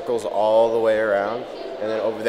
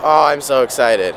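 excited; 3 semitones higher, 5 dB louder than usual. Real, not acted. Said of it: "you can probably hear the excitement in my voice".

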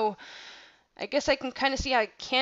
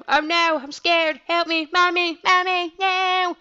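hammed-up scared cry for help, higher and louder; mock panic; 8 semitones higher, 7 dB louder, slower than usual. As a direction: play a scared kid yelling for mommy, over the top. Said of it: "I'm like".

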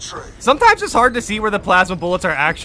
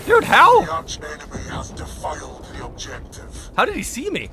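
panicking gamer. Real, not acted. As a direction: yelp it in alarm. Enemy spots him, panicking.

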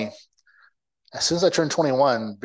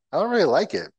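whiny protest; 7 semitones higher than usual. Retold or imitated. Son protesting to dad.

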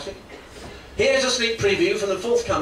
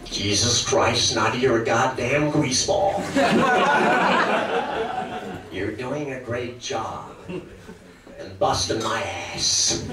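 lightly voiced smug snarl; Jack Nicholson impression. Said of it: "it's gotta be, Jack Nicholson".

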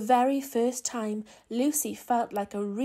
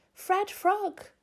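excited call; 9 semitones higher, 4 dB louder than usual. A narrator's reading. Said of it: "said Lucy".

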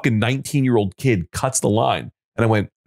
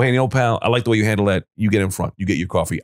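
calm reassurance; 3 semitones lower, faster than usual. Retold or imitated. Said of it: "I go".

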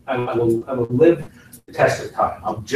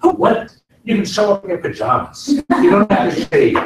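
high, louder mimicry of gushing people; hammed-up disbelief at an easy job; pitched-up, teasing imitation of an envier; mock envy; 9 semitones higher, 5 dB louder than usual. Mimicking people who envy voice actors.

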